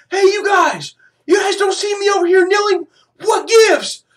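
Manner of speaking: very high, loud mock yell; mock calling out. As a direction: call across the crowd in comic outrage. Acts out calling to the crowd.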